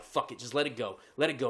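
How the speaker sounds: low, soft self-talk; stewing resignation. Retold or imitated. Driver stewing in line tells himself, low resignation. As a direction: drop it down, grudgingly letting it go. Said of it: "I'm just stewing".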